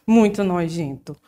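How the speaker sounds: ordinary talk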